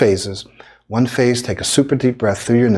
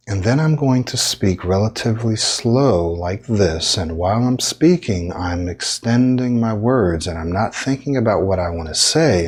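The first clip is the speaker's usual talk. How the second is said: slow, extended words. Shown as a demonstration. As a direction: speak relatively slowly, stretching words on one long exhale. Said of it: "I'm gonna do the slower version".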